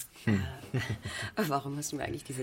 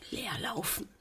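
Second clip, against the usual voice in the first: breathless despair; 6 semitones higher, 7 dB quieter than usual. Acted. Desperate confession.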